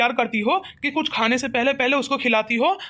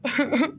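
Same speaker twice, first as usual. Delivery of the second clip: a brief burst of put-on crying; acted sobbing. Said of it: "लड़के को ऐसे रोता हुआ देख रही हूँ". (रोने की हल्की सिसकी)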